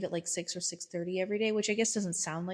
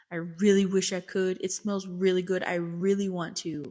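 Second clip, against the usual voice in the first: louder, emphatic wishful refusal; earnest regret; 6 dB louder than usual. Retold or imitated. Therapist turns down family's dinner invitation, emphatic regret. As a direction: lean hard on how much you wish.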